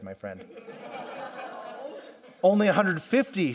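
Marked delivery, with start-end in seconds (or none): 0.5-2.0 soft laugh. Real, not acted. Laughs at answer.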